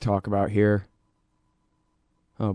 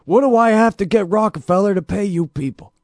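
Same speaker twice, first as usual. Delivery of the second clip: higher, louder mock German-accented Kissinger voice; mock Kissinger accent, raised pitch, gravel-free and pushy; 8 semitones higher, 4 dB louder than usual. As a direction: ham up a Kissinger impression, a bit louder. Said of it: "my Kissinger accent".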